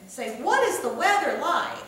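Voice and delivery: tuck "say" away and hit "What". Shown as a demonstration. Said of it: "say is kind of quieter there".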